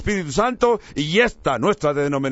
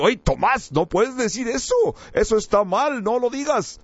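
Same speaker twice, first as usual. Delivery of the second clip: higher-pitched imagined scolding; mock reprimand; 5 semitones higher than usual. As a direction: act out a telling-off without raising volume. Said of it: "Jesús no lo reprendió diciendo".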